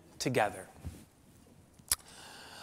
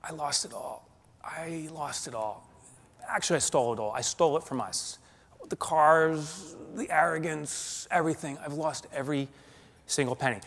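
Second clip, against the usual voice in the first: hushed, tearful admission; broken confession; 3 semitones higher than usual. Retold or imitated. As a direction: confess it as if breaking down. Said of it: "And then I said".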